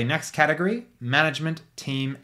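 ordinary talk, nothing marked

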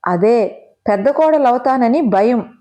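పెద్ద pressed hard and slow, with spite; spiteful stress on పెద్ద. A narrator's reading. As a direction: lean on పెద్ద spitefully, slowly. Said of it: "కసిగా పెద్ద అనే పదాన్ని నొక్కి పలికాను". (పెద్ద అనే పదాన్ని కసిగా నొక్కి)

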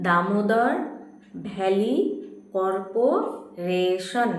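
Damodar ভ্যালি কর্পোরেশন word by word with pauses; slow dictation. Shown as a demonstration. Teacher dictates to pupils, Damodar ভ্যালি কর্পোরেশন slowly word by word. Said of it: "লিখে নাও আস্তে আস্তে".

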